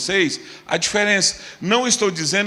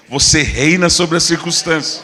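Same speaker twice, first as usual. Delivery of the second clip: loud, forceful proclamation; voice of power; 5 dB louder than usual. Shown as a demonstration. Preacher has people declare to their neighbour, voice of power. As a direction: say it with power and authority. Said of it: "você vai falar com uma voz de poder".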